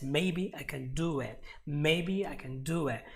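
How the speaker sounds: MAYBE and DO weighted, CAN light; stress on MAYBE. Shown as a demonstration. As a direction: lead firmly with MAYBE, reduce CAN. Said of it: "maybe is another very important word".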